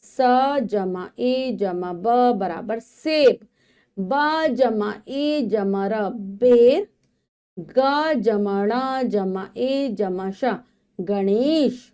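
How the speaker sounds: slow syllable blending, then the sentence; phonics reading aloud. Shown as a demonstration. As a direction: sound out each letter for young learners. Spelling with plus signs.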